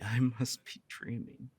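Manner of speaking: slow, laughing in happy disbelief; dazed laugh. Acted. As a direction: savor it slowly through a laugh. Dazed by the confession.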